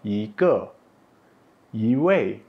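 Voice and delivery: yi rises before falling ke and wei; second-tone yi. Shown as a demonstration. Teacher reading examples, yi in rising second tone. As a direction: lift yi like a question. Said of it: "nada kedua".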